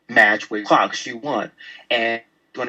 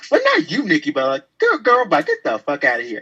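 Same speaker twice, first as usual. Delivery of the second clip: sassy dismissal; 2 semitones higher than usual. Acted. Sassy dismissal of Nikki Bella.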